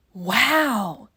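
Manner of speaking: loud gleeful shout; kids yelling. Acted. Kids cheering that their teacher is absent, loud gleeful whoop. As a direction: whoop like freed schoolkids. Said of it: "yelled the kids".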